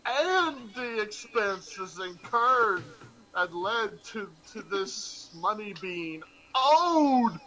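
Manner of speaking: slow deliberate reading; slow careful reading. Shown as a demonstration. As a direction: read it slowly and carefully. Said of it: "Stop, there's two thes".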